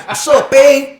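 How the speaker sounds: high, loud put-on cholo voice; Edward James Olmos. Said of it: "talking like fucking Edward James Olmos".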